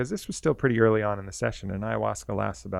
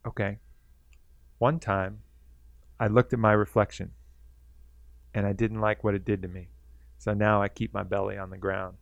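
reluctant snake. Retold or imitated. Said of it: "no interest in talking".

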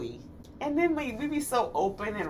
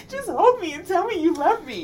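higher, half-laughing plea; playfully needy, pitched up; mock plea for love; 7 semitones higher, 4 dB louder than usual. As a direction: plead for affection through a laugh. Voices the hidden wish, laughing.

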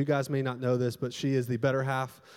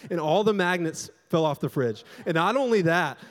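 normal talking voice

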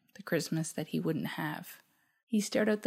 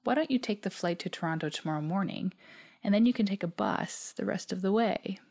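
perky smile; 3 semitones higher than usual. Retold or imitated. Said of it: "She perked up and said with a smile".

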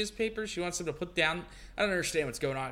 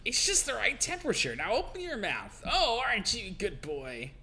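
cooing nanny voice; 4 semitones higher than usual. Acted. Mary feeding the baby.

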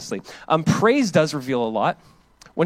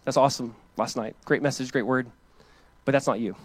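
quiet mentor advice; 4 semitones lower, 5 dB quieter than usual. Retold or imitated. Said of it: "and he goes".

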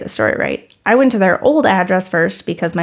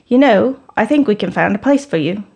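put-on a loose British accent that fades fast; terrible British accent. New British boss offers him the job, bad British accent. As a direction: mimic the British boss, a bit badly. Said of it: "Sorry for my terrible British accent".

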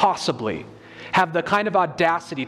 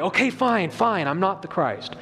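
mock reluctant, giving in; sighing "fine" as if cornered; grudging admission. Shown as a demonstration. Preacher mocking a forced confession, grudging. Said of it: "got him to deny".

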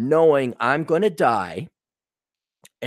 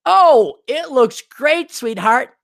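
sweet reassurance; 9 semitones higher, 4 dB louder, slower than usual. Retold or imitated. The right sweet answer.

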